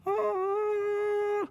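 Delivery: long high angelic note; high held "ah". Acted. Young player invited to sit in, a high held "ah". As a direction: hold a high, mock-heavenly "ah".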